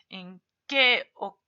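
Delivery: slow, deliberate question, each word laid out; slow example question. Shown as a demonstration. Teacher reads a sample question slowly to students. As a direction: read the example out slowly and clearly. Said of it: "Así, tilde".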